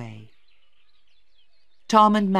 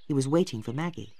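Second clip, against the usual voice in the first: ordinary delivery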